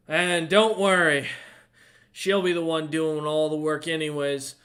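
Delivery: tipsy father bragging to Lucius about his daughter, slurring; drunk slurring. Acted. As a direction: boast about her with slurred words. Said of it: "as he's slurring his words".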